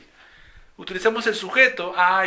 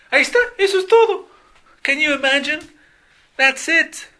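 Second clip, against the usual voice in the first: much higher, louder, fast mock cheer of a student; 11 semitones higher, 6 dB louder, faster than usual. Student mocking the end of the lesson with a high, loud cheer. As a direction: cheer like a relieved pupil.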